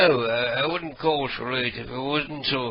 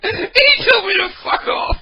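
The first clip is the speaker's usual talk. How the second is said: higher, louder, laughing through the words; laughing loud disbelief; 7 dB louder than usual. Real, not acted. Caller laughs, repeating the insult to the audience. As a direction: gasp it out mid-laugh. Laughing after being sworn at.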